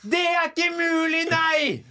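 a mock cry that nobody could do that sum; mock disbelief. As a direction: ham up the outrage at simple maths. Mocking the slow cashier.

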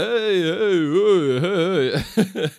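mock the fan's squeal back, half laughing; echoing the freakout. Storyteller squealing back at the excited fan, laughing.

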